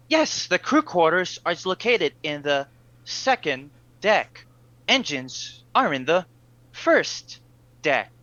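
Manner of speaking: calm, dutiful ship computer; android voice. Acted. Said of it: "need to get into my android voice".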